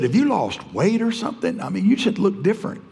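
high, excited New York Italian guy; a high New York voice asking about his weight; New York accent. Retold or imitated. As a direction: ask it like a startled New Yorker. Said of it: "had that New York accent".

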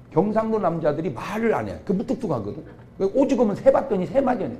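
ordinary delivery

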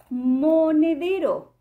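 "monedero" drawn out slowly; stretched reveal. Shown as a demonstration. Teacher revealing the answer word slowly. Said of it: "Formamos la sílaba mo, como".

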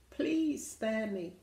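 lightly hammed-up pleading; mock pleading. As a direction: draw out a plea for mercy. Captured dinosaur begs for mercy.

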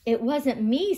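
plain-ish cheetah voice. Acted. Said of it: "said Cheetah".

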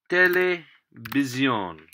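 televisión said slowly, stress landing on the final ón; careful Spanish. Shown as a demonstration. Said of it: "over the O that way".

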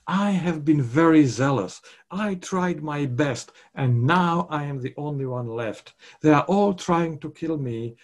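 mildly hammed-up woe-is-me lament; self-pity. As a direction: plead your case, sinking at the end. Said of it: "enormous capacity for self-pity".

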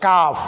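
কাফ with the tongue slightly forward of its root; light, open K in কাফ, tongue on the palate. Shown as a demonstration. Teacher contrasts it with qaf, forward-tongue K in কাফ. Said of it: "একটু আগে সামনের দিকে অগ্রসর হয়ে".

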